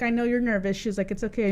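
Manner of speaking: softly soothing aunt; mild, hushed consoling; retold reassurance. Aunt reassuring her in retelling.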